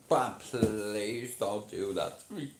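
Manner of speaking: drawn-out, slow mock plea; pleading impression. Streamer showing what happens to him, pleading impression. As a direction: stretch out the begging as an impression. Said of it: "this is an impression of someone".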